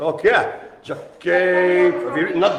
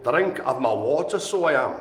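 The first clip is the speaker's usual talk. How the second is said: a light, softer touch of Scottish; mock Scottish accent; 3 semitones lower, 5 dB quieter than usual. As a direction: slip playfully into a Scottish lilt. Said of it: "Don't know why I'm Scottish".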